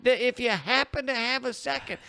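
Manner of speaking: a meek, sorrowful rabbi asking very politely; sad rabbi voice. Pretend. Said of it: "that's a sad rabbi voice".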